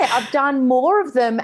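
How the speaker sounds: chuckling through the words; light laugh in the voice. Real, not acted. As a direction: laugh it off while admitting it. Laughing about own failures.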